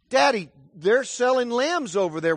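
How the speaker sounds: put-on child urging dad to buy a lamb, eager. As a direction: point it out like an excited kid. Child pointing out lambs.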